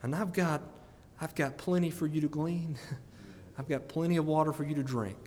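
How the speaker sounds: quietly voicing the Savior, tender and close; tender Savior's invitation. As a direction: invite them in gently, like a loving host. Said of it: "our Savior has said".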